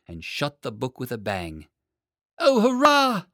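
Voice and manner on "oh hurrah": high, loud shout of delight; joyful cry. A narrator's reading. Boy cheering after trapping the dragon, loud high delight. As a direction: burst out with triumphant joy. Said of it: "he cried".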